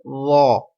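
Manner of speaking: زو with a thick, rounded th as in "this", no whistle; heavy unwhistled first sound in زو; soft emphatic letter. Shown as a demonstration. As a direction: say زو full-mouthed and soft, without a z hiss. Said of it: "سختی کی آواز نہیں آئے زو پر بھی".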